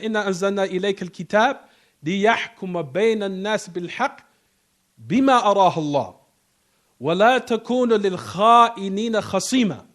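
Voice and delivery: rapid Arabic verse recitation; quick reciting voice; Quran recitation. Acted. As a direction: run through the verse quickly in recitation style.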